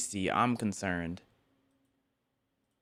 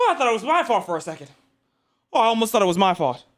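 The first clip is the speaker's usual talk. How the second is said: relieved excited; 7 semitones higher, 3 dB louder, faster than usual. Real, not acted. Relieved exclaiming after woo.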